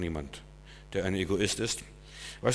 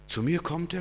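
disbelief; 6 semitones higher than usual. Retold or imitated. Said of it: "er kann's nicht fassen".

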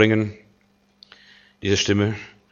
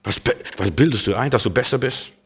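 spöttischer Teufel; 4 dB quieter, faster than usual. Retold or imitated. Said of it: "wie der Teufel dich zur Schnecke machen möchte".

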